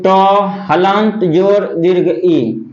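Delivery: ट हलंत जोर दीर्घ ई spelled out slowly; slow breakdown. Shown as a demonstration. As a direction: separate each part of टी, slowly. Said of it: "इसको अलग अलग कीजिए". (अलग अलग करके धीरे बोलना)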